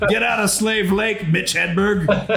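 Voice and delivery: high-pitched, hammed-up firing tirade; mock angry boss. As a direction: banish the comic in mock outrage. Acting out boss Bob firing comic.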